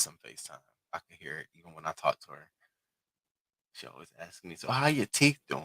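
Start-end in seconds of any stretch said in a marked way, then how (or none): 4.6-5.6 high, nosy mom voice; imitating mom. Daughter imitating her mom asking about her teeth. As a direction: mimic mom's prying question.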